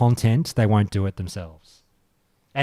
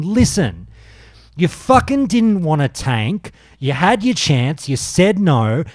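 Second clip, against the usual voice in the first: higher, slower, pressing every word; retold angry rant; 5 semitones higher than usual. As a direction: snap back at the backseat druid. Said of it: "I just fucking cracked".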